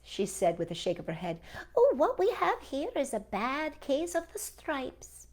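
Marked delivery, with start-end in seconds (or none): 1.7-5.3 whisper. A narrator's reading. Old woman diagnoses the stripes.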